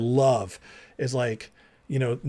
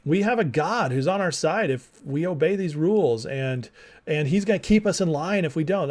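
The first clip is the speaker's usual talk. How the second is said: excited people; 3 semitones higher than usual. Retold or imitated. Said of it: "and they're like".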